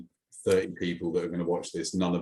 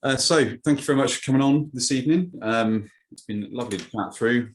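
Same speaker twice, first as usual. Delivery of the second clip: bright, louder host sign-off; mock show host; 4 semitones higher, 4 dB louder than usual. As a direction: play the upbeat presenter.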